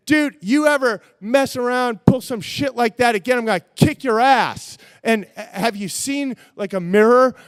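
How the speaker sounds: loud, threatening warning; angry threat. Retold or imitated. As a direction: threaten him loudly. Neighbor threatening to kick his ass.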